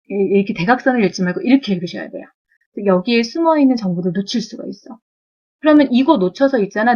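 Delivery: usual speaking voice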